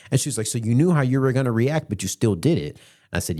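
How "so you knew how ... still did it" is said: higher, pressed imitation of mom's challenge; incredulous mom. Mom catching son's admission, higher incredulous imitation. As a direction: challenge him, pitched up in disbelief.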